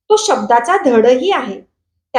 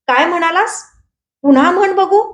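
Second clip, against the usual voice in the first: growled threat; 4 semitones higher than usual. Acted. Visu growls a dare at Sadu from the mango tree. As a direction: dare him to repeat it. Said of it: "गुरकावला".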